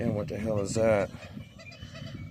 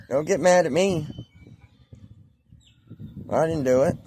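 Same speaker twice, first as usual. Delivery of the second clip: light, playful pet talk pitched up a little; 2 semitones higher than usual. Real, not acted. Vlogger chatting to his pet bird Jake, playful pet talk. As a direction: coax the bird like a friend.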